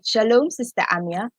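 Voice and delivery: British-accented shout-out; polite British hello. Shown as a demonstration. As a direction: greet her in a British accent. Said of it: "say it in a British accent".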